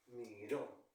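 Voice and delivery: "Miró" pausado, apoyado en la "ó" final; acento en última sílaba. Shown as a demonstration. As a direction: carga la voz al final de "Miró": mi-RÓ. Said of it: "la mayor fuerza de voz es al final". (sílaba final de "Miró" alargada)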